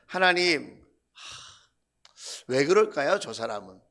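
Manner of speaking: a heavy sigh between halting words; retold lament to God, sinking low at the end; sighing prayer. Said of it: "이렇게 탄식하게 될 때".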